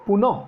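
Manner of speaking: পুনঃ with the final visarga breathed out as a short h; teacher voicing the visarga in পুনঃ; sounded visarga. Shown as a demonstration. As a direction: say পুনঃ letting the visarga be heard at the end. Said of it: "এখানে বিসর্গটা উচ্চারণ করলাম".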